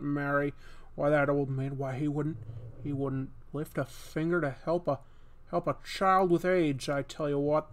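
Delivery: a hint of a fussy old-film hero; Jimmy Stewart impression. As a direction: rant about mean old Potter, old-movie style. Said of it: "Jimmy Stewart".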